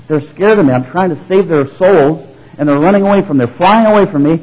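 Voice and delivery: earnest lament. Retold or imitated. Farmer telling the Holy Spirit the birds flee, urgent. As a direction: plead that they keep running away.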